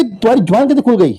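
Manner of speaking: imitated scolding. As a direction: act out an official's indignant rebuke. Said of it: "तो डंके कहते थे".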